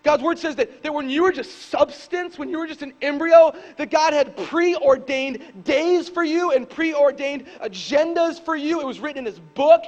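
loud, high, impassioned preaching; preaching at full force. Acted. Pastor preaching hard to his church, loud and rising. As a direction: drive the scripture home to the crowd.

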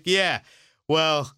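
goofy laid-back alien, drawn out; Seth Rogen alien voice. Retold or imitated. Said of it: "Seth Rogen's best comedic alien voice".

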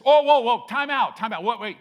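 hammed-up panic, high and loud; panicked backpedal. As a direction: scramble to take it back. Israelites panic at the wilderness.

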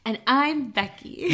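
high, loud, drawn-out podcast host intro; playfully hyped-up name intro, slow and loud; enthusiastic podcast voice. Pretend. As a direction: announce yourself like an over-eager podcaster. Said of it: "an enthusiastic podcast voice".

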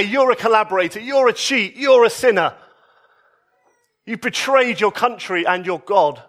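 rising, accusing jabs on each you're; mock accusing crowd. Crowd condemning the tax collector, mock accusing. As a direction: lightly play the crowd hurling charges. Crowd's expected rebuke of Zacchaeus.

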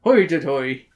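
short silly Scottish exclamation; mock Scottish accent. Co-host capping the joke about Scots, mock Scottish accent. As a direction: toss out a cartoon Scots cry. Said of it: "That's how Scottish are".

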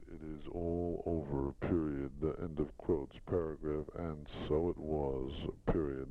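reading text aloud with spoken punctuation; steady measured dictation to a secretary. Shown as a demonstration. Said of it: "That's the end of dictation".

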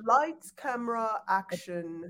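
careful put-on British accent. Shown as a demonstration. Performing the requested accent for co-host, British accent. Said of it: "give me your British accent".

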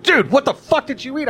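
very high-pitched incredulous quote; mock appalled. Coworker confronting him over the stink, mock appalled. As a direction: demand it high, in mock disbelief.

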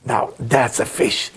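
tender delight. Retold or imitated. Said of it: "he look at it and say".

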